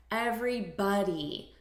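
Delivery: "Everybody" with the t-like p sound, ev-ry-PAH-dee. Shown as a demonstration. Teacher showing students how to say it, crisp "Everybody". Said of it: "notice the pronunciation here".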